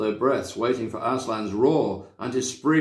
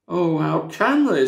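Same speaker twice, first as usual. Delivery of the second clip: tearful Lucy; 5 semitones higher, 5 dB louder than usual. A narrator's reading. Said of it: "tears streaming down her cheeks".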